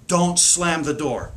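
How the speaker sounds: slow, even don't slam the door; said slowly and level; slow calm command. Shown as a demonstration. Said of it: "their brain does not register the negative".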